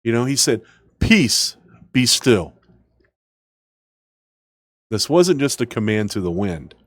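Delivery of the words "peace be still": firm high "Peace", steady "be still"; Jesus commanding calm. Acted. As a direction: speak it as a calm command over the wind. Preacher voicing Jesus calming storm.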